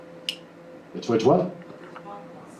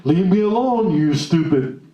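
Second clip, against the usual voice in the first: mock irritated snap; 3 semitones higher than usual. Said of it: "that I was going".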